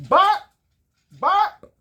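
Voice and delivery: high, loud yapping bark; yelping train-horn bark. Acted. Train horn sound in story.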